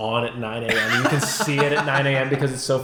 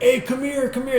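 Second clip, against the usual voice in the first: high, louder call of a big guy waving friends in; calling out warmly; 13 semitones higher, 3 dB louder than usual. Retold or imitated. Sketch bro calling the crew over, high friendly call. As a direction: hail your buddies over, big and friendly.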